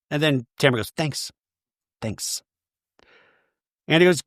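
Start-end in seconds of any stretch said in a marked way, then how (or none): 1.0-2.4 very soft, muttered mock gratitude; barely voiced, under the breath; grudging thanks. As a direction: imitate a small, reluctant acknowledgement. Acting Tamara's grudging thanks.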